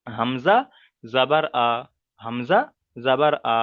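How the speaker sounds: measured teacher's model of হামজা জাবার আ, each part set apart; pronunciation demo. Shown as a demonstration. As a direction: spell out হামজা, জাবার, then a separate open আ. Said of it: "কেমন করে পড়বো, কেমন করে উচ্চারণ করব".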